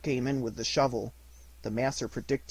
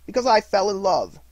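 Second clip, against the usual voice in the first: high, loud, heartfelt reply; happy nephew's frank confession; earnest answer; 8 semitones higher, 10 dB louder than usual. A narrator's reading. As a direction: declare it openly.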